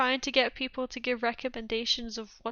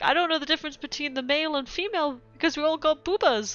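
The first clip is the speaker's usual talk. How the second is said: troll voice; 6 semitones higher, 6 dB louder, faster than usual. Retold or imitated. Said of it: "the trolls are like".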